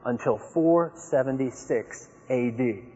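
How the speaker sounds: four seventy-six A D laid out slowly and deliberately; slow lecturing assertion; slow authoritative claim. Retold or imitated. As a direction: state it like settled fact, slowly. Opponent's claim quoted.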